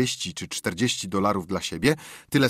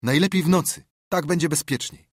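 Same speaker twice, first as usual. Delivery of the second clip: kompan Joego; 7 semitones higher, 3 dB louder than usual. Acted. Same bandit advising his partner.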